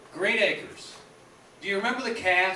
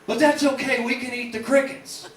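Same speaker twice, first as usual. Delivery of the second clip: cheery doofus voice; 4 semitones higher, 5 dB louder than usual. Retold or imitated. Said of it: "he'd always have a solution".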